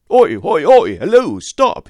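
high, loud yelling from a distance; cried out. A narrator's reading. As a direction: shout to stop the carriage before the bridge. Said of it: "he cried".

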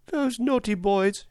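put-on high, slow, tearful little girl; a hurt child sobbing out her complaint. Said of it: "she sobbed".

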